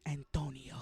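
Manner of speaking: put-on Antonio said in a Spanish accent. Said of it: "She said this in a Spanish accent".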